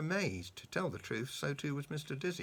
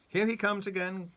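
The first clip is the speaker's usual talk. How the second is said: giggling; 8 semitones higher, 8 dB louder than usual. A narrator's reading. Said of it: "giggled the clever pig".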